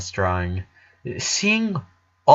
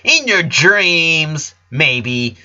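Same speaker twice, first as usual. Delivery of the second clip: mock yell; 5 semitones higher, 4 dB louder, much slower than usual. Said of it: "yelled Lola".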